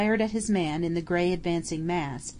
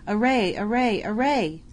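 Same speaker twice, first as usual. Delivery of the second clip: ringing call to arms, slightly raised; battle cry; 2 semitones higher than usual. Acted. Ghostly captain rallying the bowmen, ringing battle cry. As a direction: call the army to array. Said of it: "a great voice and a shout louder than a thunder peal".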